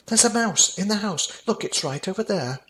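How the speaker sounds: high panicked cry of a scared dad; panicked shout. Acted. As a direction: shriek it like a grown man terrified of a mouse. Dad screams at mouse.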